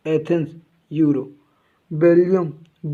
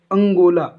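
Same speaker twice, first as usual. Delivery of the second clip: अंगोला said a bit louder, each syllable clear; stressed name; 5 dB louder than usual. Shown as a demonstration. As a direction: lean on अंगोला so the odd word sticks. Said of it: "अब ये word आपको अजीब लग रहा होगा". (अंगोला पर ज़ोर देकर, साफ़ साफ़)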